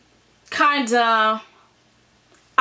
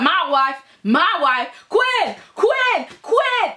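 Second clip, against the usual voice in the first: calling out; 4 semitones higher, slower than usual. Retold or imitated. Sick Eric calls for Quinn.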